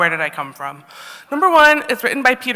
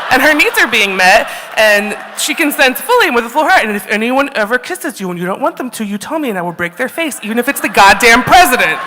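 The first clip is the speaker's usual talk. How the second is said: ad-libbed consent lecture; 2 semitones higher than usual. Shown as a demonstration. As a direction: preach consent to the kid, then blow up. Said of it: "I would say".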